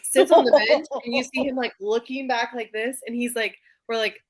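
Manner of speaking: ordinary delivery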